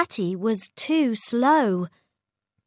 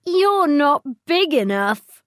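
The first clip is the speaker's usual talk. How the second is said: mocking dinosaurs; 6 semitones higher, 5 dB louder than usual. Others mock small Cosmo.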